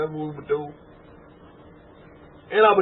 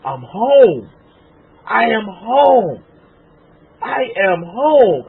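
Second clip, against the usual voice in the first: relieved realization; 3 semitones higher, 5 dB louder, much slower than usual. Retold or imitated. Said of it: "I was like".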